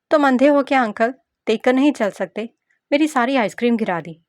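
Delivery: put-on bratty little girl. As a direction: voice a spoilt kid scolding a grown-up. Narrator voices the little girl. (गुस्सैल बच्ची की तीखी आवाज़)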